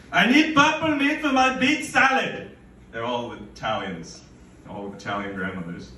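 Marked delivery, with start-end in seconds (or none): 0.1-2.5 high, loud pushy customer voice; demanding lady customer. Retold or imitated. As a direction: mimic a shrill old lady demanding meat. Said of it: "lady's demand resumes".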